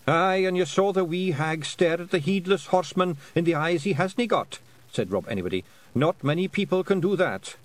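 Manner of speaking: a cocky pict chief boasting; lightly voiced Scottish clan chief; voiced Rob Anybody. Rob Anybody backing Tiffany.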